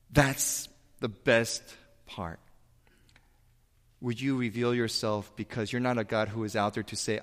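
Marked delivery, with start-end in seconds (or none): none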